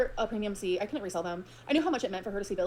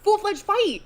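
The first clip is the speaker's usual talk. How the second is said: loud, high, repeated punchline; emphatic; 8 semitones higher, 7 dB louder, much slower than usual. Real, not acted. Telling the snow story, the host shouts the twist. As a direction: hammer home the punchline.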